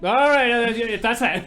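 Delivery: high, loud hammed-up villain voice; mock-stunned villain. Mattress man backing down to Barry, hammed-up high and loud. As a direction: play the bully caught off guard.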